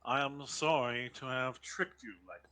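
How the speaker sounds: put-on polite, formal old butler. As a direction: speak like a courteous household butler. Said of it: "my butler voice".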